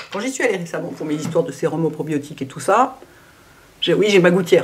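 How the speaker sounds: slight lisp from a dental retainer; lisping a little, retainer in. Real, not acted. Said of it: "c'est pour ça que je zozote un peu". (léger zézaiement à cause de la gouttière)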